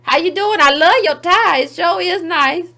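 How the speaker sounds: lightly voiced flattering assistant; eager intern. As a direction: suck up to the boss, slowly. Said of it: "He look like".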